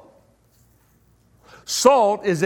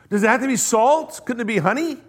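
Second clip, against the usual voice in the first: higher, whining questions, quick on the long one; mock grumbling questioner; 5 semitones higher, faster than usual. Imagined men question Elisha, mock whiny objections. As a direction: pester the prophet with petty objections. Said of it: "They didn't say".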